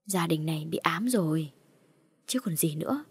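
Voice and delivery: hushed, secretive whisper; gossiping whisper. Acted. Mourners gossiping at the funeral, hushed whisper. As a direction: whisper it behind the family's back.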